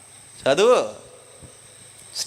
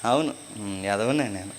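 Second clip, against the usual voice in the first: meek reply; 8 semitones lower, 7 dB quieter than usual. Acted. Meek acceptance acted.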